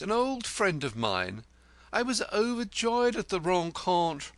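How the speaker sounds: high, florid self-important poet; 1 grandiloquent poet. A narrator's reading. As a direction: hold forth grandly about yourself. Poet voice held.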